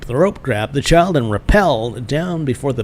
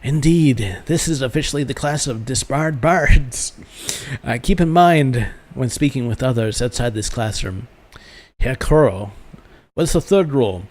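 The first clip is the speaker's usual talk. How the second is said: put-on German-accented master addressing the class; German schoolmaster. Master reviewing rules for a new arrival, in a German accent.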